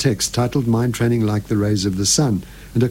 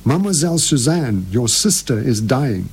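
a firm, ringing priestly call; strong vibrant voice. Acted. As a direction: cry it out, strong and resonant. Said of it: "with a strong, vibrant voice, he cried".

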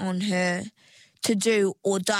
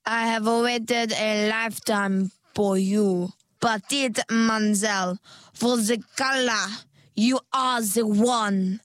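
hard sell; 4 dB louder than usual. Acted. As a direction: flatter her like a pushy saleswoman. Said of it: "hard sell sales mode".

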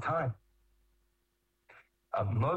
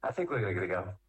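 low, unbothered aside; calm kid; 6 semitones lower than usual. Acted. Kid to his friend after being yelled at, calm and unbothered. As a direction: say it low, totally unfazed by the yelling. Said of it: "the kid calmly looks at his friend and goes".

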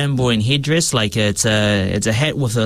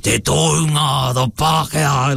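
lightly voiced grandfather, emphasizing each word; grandfather's way of speaking; 3 semitones higher than usual. Actor shows how he channels his grandfather's emphasis, lightly voiced. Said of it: "I definitely internalize".

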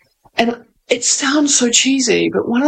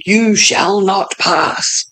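Gandalf's roar; much slower than usual. Retold or imitated. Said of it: "gravelly, amazing voice saying".

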